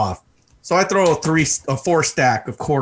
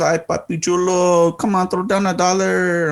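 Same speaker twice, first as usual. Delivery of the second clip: mock come-on, pitched up and stretched; wheedling stripper; 6 semitones higher than usual. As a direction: imitate a stripper coaxing money out of a customer. Stripper voiced wheedling for a dollar.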